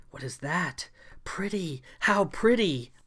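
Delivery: lightly purred creature delight; a hint of a cat purring over a treasure. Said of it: "she said in a purring fashion".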